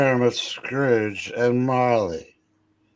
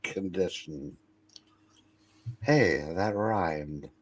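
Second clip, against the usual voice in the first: put-on stern old miser; 4 semitones higher, 4 dB louder than usual. Plays Scrooge scolding his clerk.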